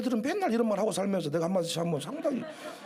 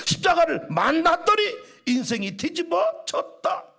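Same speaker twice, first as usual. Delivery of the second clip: loud, fervent sermon climb; full-force preaching; 2 semitones higher, 3 dB louder than usual. Acted. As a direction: preach it with everything you have.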